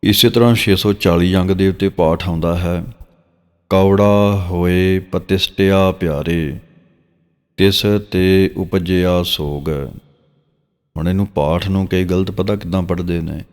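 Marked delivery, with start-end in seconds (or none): 3.7-9.7 drawn-out, measured reading of sacred verse; slow scripture recitation. Shown as a demonstration. Teacher reciting Gurbani verse for students, slow and measured. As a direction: recite each phrase slowly and reverently.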